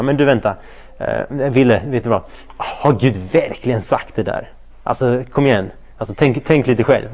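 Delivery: a lightly voiced sly tempter, slowing down on the question; Satan tempting. Satan whispering doubt to the listener, mildly sly. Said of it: "Det är Satans taktik idag".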